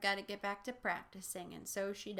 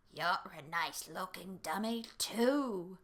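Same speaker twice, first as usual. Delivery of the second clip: rough, harsh, rasping growl, stretched out too long; 3 dB louder than usual. Reading the dummy's reply to a woman, in Mister Wood's harsh, raspy growl. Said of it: "declared in a harsh, raspy growl".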